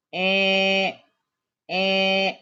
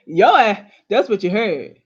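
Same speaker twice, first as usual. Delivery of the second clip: loud laughing jab, louder; laughing punchline; 6 dB louder than usual. Real, not acted. Speaker teasing listeners, laughing loudly. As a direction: land the joke through a laugh.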